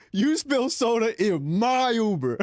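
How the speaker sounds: lightly voiced offended driver, slow; slow mock angry driver. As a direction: drag out the driver's complaint mockingly. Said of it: "It said".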